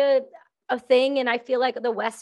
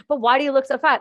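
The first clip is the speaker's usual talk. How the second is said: blunt stranger; 4 semitones higher, 4 dB louder, faster than usual. Retold or imitated. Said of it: "you know what accent I wanna do".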